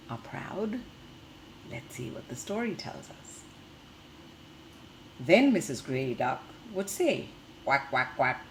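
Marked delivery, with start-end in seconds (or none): 5.2-7.3 lively storybook reading for little ones; reading to children. Acted. Teacher reading a picture book to the class, lively storytelling. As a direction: read the tale brightly to the class.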